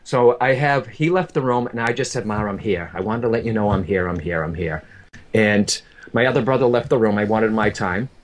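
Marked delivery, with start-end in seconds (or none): 2.3-4.8 gentle reassurance. Retold or imitated. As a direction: gently retell reassuring a parent, sinking lower. Son at dying mother's bedside.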